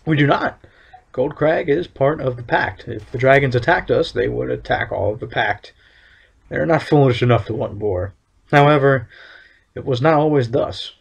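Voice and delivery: lightly voiced stern official, measured and solemn; town overseer. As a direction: read it as a proud town overseer laying down the law. Reads overseer's NPC lines.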